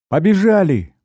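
put-on high excited girl's call. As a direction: call out, eager to run. Girl runs to bus. (радостный высокий возглас)

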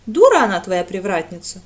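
loud, blunt exclamation; heartfelt outburst. A narrator's reading. Радда в сердцах, громко. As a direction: Radda snaps about the gatekeeper, loud. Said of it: "искренне сказала Радда".

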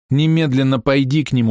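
wife imploring her husband to act; pleading. A narrator's reading. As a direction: beg him to go now. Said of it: "умоляла она".

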